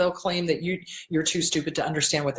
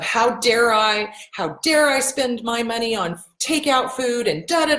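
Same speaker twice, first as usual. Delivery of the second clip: mock drama; 4 semitones higher than usual. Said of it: "this complete drama".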